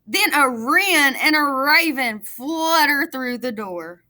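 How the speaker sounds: put-on lively read-aloud for young children; storybook reading. A narrator's reading. Teacher reading a picture book to her class, lively storytelling.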